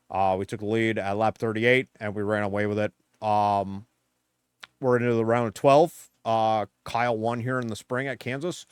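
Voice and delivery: loud, boastful mock crew chief; Cliff Daniels impression. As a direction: brag like a cocky crew chief after a win. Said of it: "the worst Cliff Daniels impression ever".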